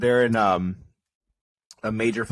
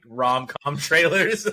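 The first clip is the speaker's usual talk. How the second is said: laughing; 7 semitones higher, much slower than usual. Real, not acted. Laughing about trailers.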